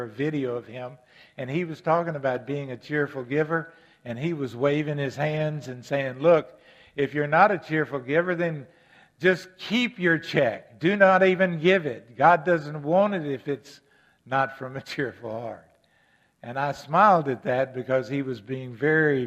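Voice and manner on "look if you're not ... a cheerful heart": imitating an emphatic preacher, louder in the middle; dramatic and emphatic. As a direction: quote him with mock-dramatic force, then let it drop. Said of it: "very dramatic and emphatic".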